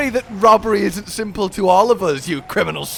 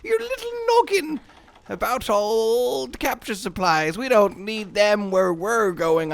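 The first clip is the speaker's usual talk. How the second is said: pirate voice; 4 semitones higher than usual. Acted. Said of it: "okay, pirate".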